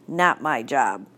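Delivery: low, sour grumble; a teacher grumbling about cleaning up; grumbled. Acted. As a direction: grumble it under your breath. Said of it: "she grumbled".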